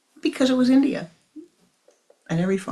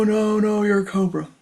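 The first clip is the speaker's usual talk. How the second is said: much louder, firm repeated no; loud refusal; 4 semitones higher, 8 dB louder than usual. Acted. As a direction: shut him down hard. Farmer firmly refusing again.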